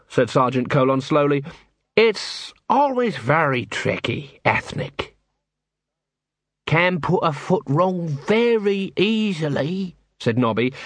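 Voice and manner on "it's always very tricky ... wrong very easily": cautious watchmen. Acted.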